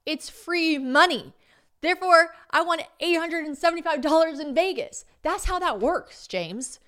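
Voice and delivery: high, loud, indignant self-justifying; mock defensive. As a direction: she defends her winnings to James, indignant and loud. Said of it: "And I was like".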